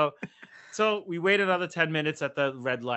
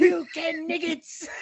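mock driver insult; 13 semitones higher, 4 dB louder, slower than usual. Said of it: "The bus driver is probably".

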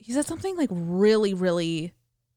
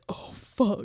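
whispered mock dismay; hushed dismay; 4 dB quieter than usual. Dreamer retelling getting caught with another girl's guy, whispered dismay. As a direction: breathe it out as an aside, barely voiced.

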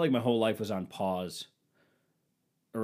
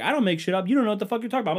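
much higher and louder mock wife; wife yelling back; 12 semitones higher, 7 dB louder, much faster than usual. Wife shouting he doesn't know what he's talking about. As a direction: yell it back as her. Retold argument, wife's line.

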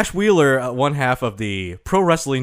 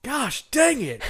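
laughing exclamation; 11 semitones higher, slower than usual. Real, not acted. Mock frustration at sushi fact.

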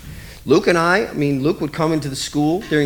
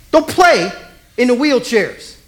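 stern scolding; 4 semitones higher, 4 dB louder, slower than usual. Retold or imitated.

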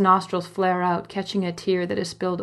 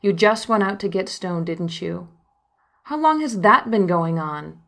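angry; 3 dB louder than usual. Retold or imitated. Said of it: "Mama Bear rage sets in".

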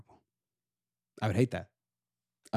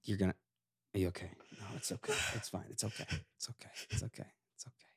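mock self-soothing; 7 semitones lower, 16 dB quieter, much faster than usual. Self-consoling fade to whisper.

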